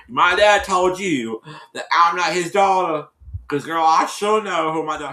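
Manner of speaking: retold indignant comeback. Retold confrontation between the girls.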